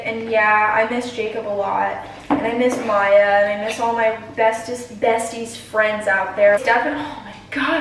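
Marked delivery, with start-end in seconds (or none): 2.4-7.8 breathless from mashing; puffing while talking; out of breath. Real, not acted. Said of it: "I am out of breath".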